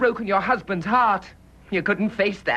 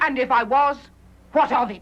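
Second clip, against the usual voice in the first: defiant; 4 semitones higher than usual. Acted. Nurse defiantly admits her love.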